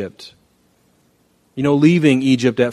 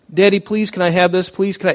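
mock child pleading, pitched up; 7 semitones higher than usual. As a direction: beg like a small kid. Child begs parent.

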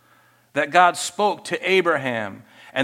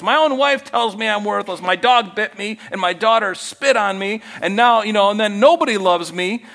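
louder, higher rising list of woes; self-pitying complaint; 4 semitones higher, 5 dB louder than usual. Pretend. Believer complains to God that nobody loves him, rising self-pity. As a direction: pile on the self-pity, half-mocking.

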